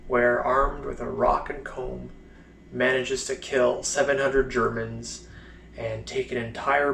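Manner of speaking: mounting scorn at the tall tale; mock the heroics with contained anger, then drop off at the end; pissed off. Blind soldier scorning heroic war stories, mildly pissed off. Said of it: "that's when he kinda gets pissed".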